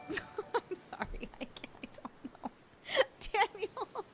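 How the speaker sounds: real choked-up, barely voiced apology; tearful, overwhelmed. Real, not acted. Streamer overcome by viewers' gifts, tearful and faint. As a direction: fight back happy tears, voice nearly gone.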